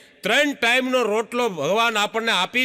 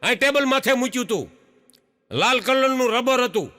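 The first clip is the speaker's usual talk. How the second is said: frantic search; 5 semitones higher than usual. Retold or imitated. Husband hunting for lost money.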